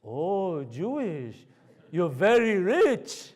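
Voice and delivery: imitated wide-eyed realization, drawn out; young Sikh gentleman. Young Sikh seatmate reacting to learning he's Jewish, imitated awe. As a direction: stretch it out like an impressed stranger. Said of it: "a young Sikh gentleman".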